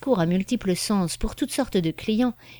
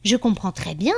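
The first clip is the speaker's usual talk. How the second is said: mildly carried away with excitement; a little exalted. Acted. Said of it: "avec un peu d'exaltation". (avec un peu d'exaltation, à peine appuyée)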